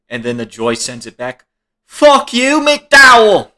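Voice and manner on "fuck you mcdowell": loud, high-pitched imitation of a furious comeback; mock angry yell. Imitating Joyce sending an insult back, mock angry yell.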